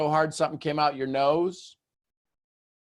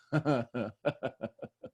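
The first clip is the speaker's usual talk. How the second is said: soft laugh; 6 dB quieter than usual. Retold or imitated. Laughing with a giggling baby.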